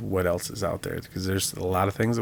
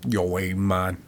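bad Boston accent, landing nearer Jamaican; botched Boston accent; much slower than usual. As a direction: attempt Boston and slip into Jamaican. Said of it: "that was, like, Jamaican".

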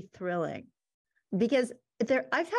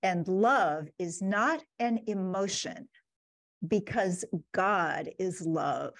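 Shakespearean trained voice. Retold or imitated. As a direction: lightly imitate a classically trained stage actor, drawing out the words. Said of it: "saying in his Shakespearean trained voice".

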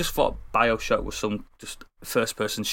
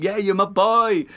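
mock gleeful; 8 semitones higher, 3 dB louder than usual. Mocking the player trusting Atlas.

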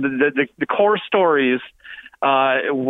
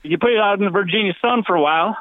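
put-on laughing Southern accent; 2 semitones higher than usual. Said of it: "the worst Southern accent".

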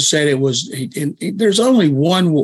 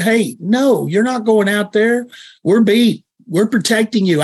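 higher-pitched mock coach veto; imagined firm refusal; 6 semitones higher than usual. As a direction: overrule the player, protectively, in a raised pitch. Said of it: "He said".

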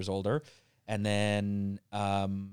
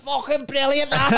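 tipsy dad's praise; 6 dB louder than usual. Retold or imitated. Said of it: "My dad would be like".

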